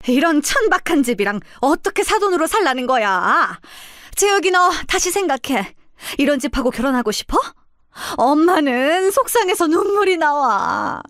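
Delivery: sneering. Acted. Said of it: "더 비아냥거리기 시작했어요".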